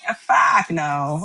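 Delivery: put-on slow, drawn-out Boston accent; Matt Damon Boston accent. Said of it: "That was my Boston accent".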